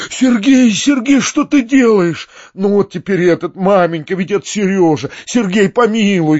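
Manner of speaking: high, loud, alarmed calling; pleading cries. A narrator's reading. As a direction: cry out to stop the departing nephew. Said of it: "кричал он, гоняясь за мной". (умоляющий крик)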